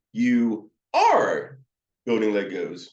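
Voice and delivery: ARE punched and drawn out; stress on ARE. Shown as a demonstration. Counselor reflecting to a child, ARE emphasized. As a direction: lean hard on the word ARE. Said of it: "you can emphasize the R".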